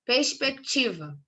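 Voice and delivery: "Perspectiva" read slowly, part by part; deliberate, slow "Perspectiva"; sounded-out reading. Shown as a demonstration. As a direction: read out "Perspectiva" slowly for a class, stretching its syllables. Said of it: "vamos ler a palavra".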